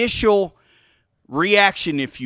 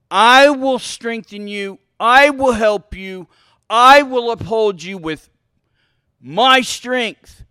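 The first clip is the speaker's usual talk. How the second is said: loud, emphatic, drawn-out scripture declaration; God speaking; 3 semitones higher, 6 dB louder, slower than usual. Acted. Preacher telling the church what God says, loud and emphatic. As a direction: proclaim each promise slowly and forcefully. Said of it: "so here's what God says".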